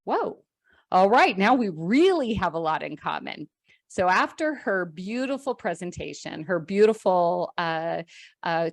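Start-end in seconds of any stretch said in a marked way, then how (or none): 0.0-3.5 surprised whoa. Retold or imitated. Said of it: "And I was like".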